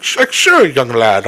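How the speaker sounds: put-on wrestler putting on a clumsy Russian accent; half-hearted Russian accent, forced; fake Russian accent. Wrestler answering a fan in a forced Russian accent. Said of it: "try and pull off the accent".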